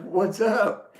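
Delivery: high laughing challenge; laughing taunt. Retold or imitated. Taunting the truck driver through laughter, high and mocking. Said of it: "So I was like".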